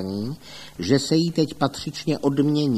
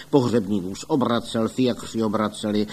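ordinary delivery

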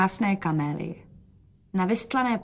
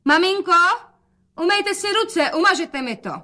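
put-on much higher, louder girlish call; bright daughter call; 11 semitones higher, 4 dB louder than usual. A narrator's reading. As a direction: call out to mother, high and loud. Daughter calls to mother. (dcera volá na matku vysokým hlasem)

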